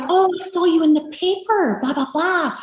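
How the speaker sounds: high-pitched, eager retold greeting; imitating excited coach. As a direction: act out an excited gym coach. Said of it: "He's all excited".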